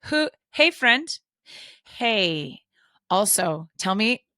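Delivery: loud, mock stern call. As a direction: call the kid back sharply. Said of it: "I'm like".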